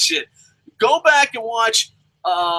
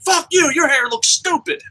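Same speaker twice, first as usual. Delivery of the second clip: mock flip out; 6 semitones higher than usual. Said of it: "see him flip out".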